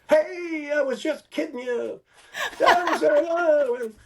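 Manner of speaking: very high, laughing mock broadcaster voice; imitating Uecker, laughing. Uecker popping up from under a cab to his friends, high laughing mock voice. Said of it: "he jumps up and he goes".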